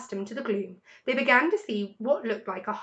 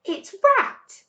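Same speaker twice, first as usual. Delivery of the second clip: Badger voice; 12 semitones higher, 7 dB louder than usual. A narrator's reading. Badger recognizing Rat.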